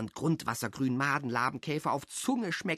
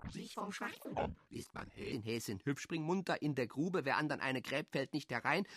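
hushed recollection; 9 dB quieter than usual. Acted. Half-remembered rhymes.

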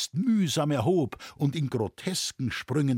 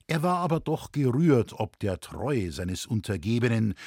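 plain reading voice

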